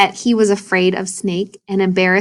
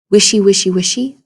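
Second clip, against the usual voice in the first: louder, punched wishy, wishy, wishy; rustling grass sound; 3 dB louder, faster than usual. Shown as a demonstration. Teacher rereading the snake's grass sound, swishing. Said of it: "reread that again and think about the sound".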